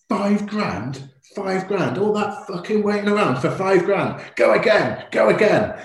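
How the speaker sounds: high, loud, disbelieving outburst; wife exploding at the auction over five grand; outraged shriek. Retold or imitated. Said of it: "she went".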